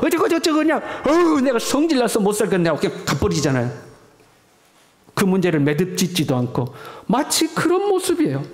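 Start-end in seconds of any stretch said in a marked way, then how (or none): 0.0-2.7 higher, hammed-up tirade; imitating a furious outburst; mock angry rant. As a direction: play someone fuming and storming off. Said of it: "너무 화가 나면".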